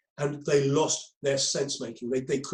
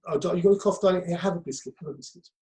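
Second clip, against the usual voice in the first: calm mum; 2 semitones higher, faster than usual. Retold or imitated. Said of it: "the mum looks and goes".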